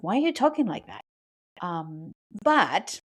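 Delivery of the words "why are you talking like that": mock exasperated self-talk. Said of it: "It's like".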